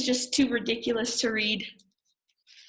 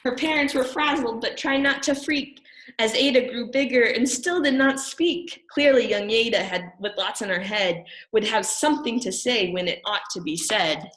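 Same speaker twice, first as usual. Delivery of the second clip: put-on lilting story reading for children; rhyming read-aloud. A narrator's reading. Parent reads a rhyming picture book to children, lilting. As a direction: read it in a sing-song rhyme.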